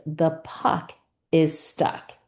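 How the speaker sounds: "The puck", small pause, "is stuck", slowly; slow dictation. Shown as a demonstration. Teacher gives student a sentence to repeat, slow dictation. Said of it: "maybe I give you the sentence".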